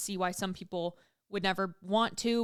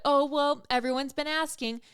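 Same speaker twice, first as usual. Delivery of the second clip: higher, louder smug brag; mock diva confidence; 6 semitones higher, 4 dB louder than usual. Showing her show-up energy, mock diva brag. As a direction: play the in-demand star, tongue in cheek. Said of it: "That's kinda like my energy".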